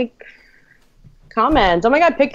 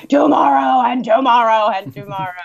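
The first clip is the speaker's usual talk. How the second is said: shouting from the gut; 3 dB louder than usual. Retold or imitated. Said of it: "scream it from, like, the bottom of your stomach".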